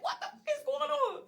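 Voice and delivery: high-pitched wail at normal volume; mock yelling. Retelling her arrest to viewers, mock yelling. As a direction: act out bewildered yelling, held back. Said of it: "I'm like yelling this shit".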